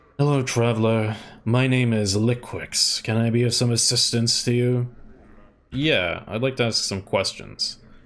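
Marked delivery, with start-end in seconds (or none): 0.2-4.9 mild-mannered, gentle speaking voice. Narrator voicing a man greeting a traveler between swallows of ale, Liquix, very quiet gentle voice. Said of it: "he speaks in a gentle voice, so quiet that you can barely hear his words".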